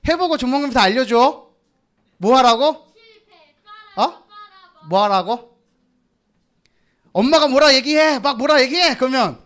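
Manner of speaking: ordinary delivery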